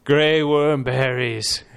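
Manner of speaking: slow proud pronouncement. Acted.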